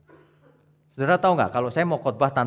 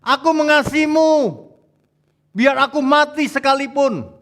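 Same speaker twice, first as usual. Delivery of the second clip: high, loud melodramatic vow; over-the-top Petrus; 12 semitones higher, 9 dB louder than usual. Acted. Petrus vowing to Jesus, melodramatic and high. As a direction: ham up Petrus's exaggerated devotion. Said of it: "Petrus ini agak lebay memang".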